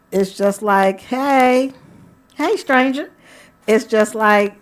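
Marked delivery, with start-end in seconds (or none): 1.0-3.1 high, louder playful hail; flirty greeting. Acted. Greeting a lover she's been thinking about, flirty. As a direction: sing out a teasing hello to a lover.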